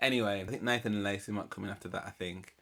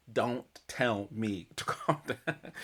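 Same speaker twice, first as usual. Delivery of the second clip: laughing; slower than usual. Real, not acted. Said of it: "someone telling you to calm down".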